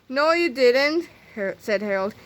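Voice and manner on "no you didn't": higher, slow and drawn-out protest; indignant contradiction. A narrator's reading. Harold calling out Melvin's fib, indignant. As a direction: stretch out the flat-out denial.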